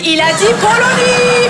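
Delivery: very high, drawn-out comic outrage; cri outré. Acted. Prof outrée par la faute. (cri suraigu, outré et traînant)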